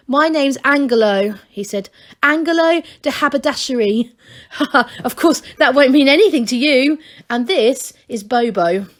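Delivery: high, eager gnome voice; breathless wonder at the outside; excited young gnome. A narrator's reading. A young gnome tells Masklin about outside, high and eager. Angelo introduces himself.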